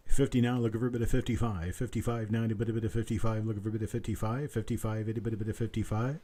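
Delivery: quick steady auctioneer patter; auction bid calling. Acted. Auctioneer calls for the next bid in brisk patter. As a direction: keep the bids rolling like an auctioneer.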